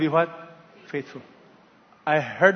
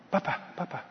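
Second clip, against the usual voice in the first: soft, faint repeated call; a trapped child calling weakly; 10 dB quieter, faster than usual. A narrator's reading. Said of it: "He heard the voice again".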